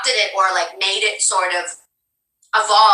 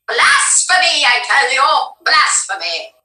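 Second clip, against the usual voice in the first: mock outrage; 3 semitones higher than usual.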